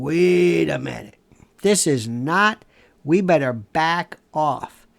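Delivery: slow, halting mock realization; dawning second thoughts. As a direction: act out backing down, drawing the words out. Voices officials having second thoughts.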